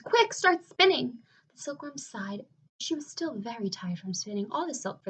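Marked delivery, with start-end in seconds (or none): 0.0-1.2 loud, high and slow urgent order; urgent yell. Acted. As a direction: push the order out with alarm. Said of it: "yelled James".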